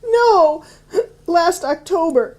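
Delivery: high, sobbing no, then a slow, teary last October; crying. Acted. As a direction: cry through the words. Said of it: "I don't know why I'm crying".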